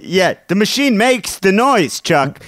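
high, irritated gruff worker; annoyed driver. Acted. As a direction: snap at the coworker to quit it. Acted bulldozer driver scolding coworker.

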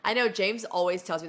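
usual speaking voice

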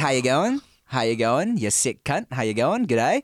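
casual Aussie greeting, rising at the end; Australian accent. Acted. Host mimicking how Aussies say hello, Australian accent. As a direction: greet them like an Australian mate. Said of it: "not that bad at that accent".

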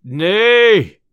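loud, high, long-held "Nay"; bold refusal. A narrator's reading. Landlord stops the tinker leaving unpaid, boldly crying out. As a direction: block the way with a ringing cry. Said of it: "for money made him bold".

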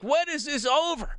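slow, high, bored-out imitation; mock weary. Host imagines Brian two hours into the ceremonies, slow, weary mock voice. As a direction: drag it out like someone worn down by it. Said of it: "He's like".

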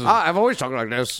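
a lightly voiced affected actor; hint of a mannered movie-star voice; joining in with a mild celebrity impression; Johnny Depp impression. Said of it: "Your Johnny Depp impressions are phenomenal".

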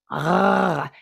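drawn-out silly "ah" noise; playful noise. Real, not acted. Presenter making listeners laugh, playful drawn-out noise. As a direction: stretch out a silly roar for laughs. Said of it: "when I make that noise".

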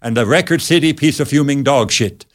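mock Swedish gibberish; hammy fake Swedish accent. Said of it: "talking some fake Swedish voice".

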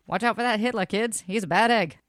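put-on old-timey radio announcer voice; hammy newsreel warning to kids; 1930s radio announcer. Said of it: "I should be a nineteen thirties radio announcer".

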